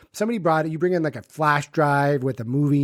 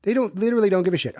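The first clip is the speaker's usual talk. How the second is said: heated rant; 7 semitones higher, faster than usual. Real, not acted. Emphatic complaint about politicians.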